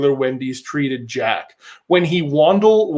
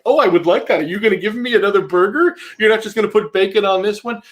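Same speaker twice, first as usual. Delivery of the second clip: mock childlike delight, pitched up; hammed-up gleeful questions; toddler glee; 5 semitones higher, faster than usual. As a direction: gush like a thrilled toddler. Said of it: "his toddler glee exploded".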